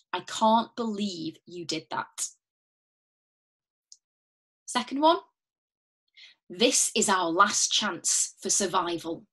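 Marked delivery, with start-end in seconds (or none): 0.1-2.3 lower, slower, let the disbelief sink in; slow sad disbelief. Shown as a demonstration. Teacher demonstrating a line for students, slow and sad. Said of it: "maybe say it back to me". 6.5-9.3 slow, measured, each word weighed; slow and grave. Shown as a demonstration. Teacher modelling a dramatic line, slow and grave. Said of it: "maybe say it back to me".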